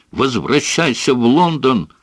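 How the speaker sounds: high, strained yelling; shouting. A narrator's reading. Son screams at father to leave. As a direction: hurl it at him high. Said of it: "закричал он".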